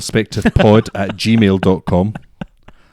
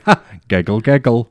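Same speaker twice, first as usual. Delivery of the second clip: light imitation of a worded giggle; spoken fake laugh; 2 semitones higher than usual. Repeating how the girl reacted, mock spoken giggle. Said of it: "she went".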